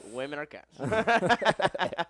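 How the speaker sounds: newsboy shout. Pretend. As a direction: cry it out like a paperboy. Newsboy announcing headline.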